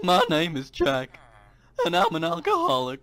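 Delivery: copied YouTuber intro voice. Acted. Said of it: "says something stupid in a stupid voice".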